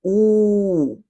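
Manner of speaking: "ou" held long. Shown as a demonstration. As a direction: stretch the "ou" vowel. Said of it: "ou va pwononse pi long". (pwononse "ou" pi long)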